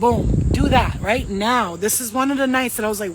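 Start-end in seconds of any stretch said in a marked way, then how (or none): 0.0-1.8 firm order. Retold or imitated. Ordering the bouncer out.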